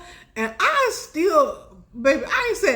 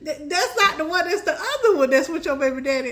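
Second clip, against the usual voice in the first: laughing brother; 3 semitones higher than usual. Retold or imitated. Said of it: "He said".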